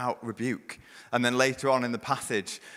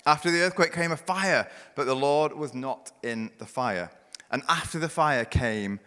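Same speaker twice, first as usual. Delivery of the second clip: dramatic scripture reading; 2 semitones higher than usual. Acted. Preacher reading Elijah's story to the church, swelling then hushed. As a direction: build it big through wind, earthquake and fire, then drop to a hush.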